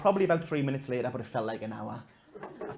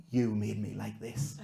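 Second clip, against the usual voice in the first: put-on cold child; 4 semitones lower, slower than usual. Boy's cold threat.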